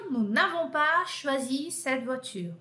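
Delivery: slow, careful French negation; slow model negation. Shown as a demonstration. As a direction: say each word clearly for students. (negativa em francês, devagar)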